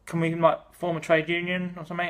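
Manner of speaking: mock-whiny plea for a union; pleading workers. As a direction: beg like a desperate worker. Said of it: "poor and working people were like".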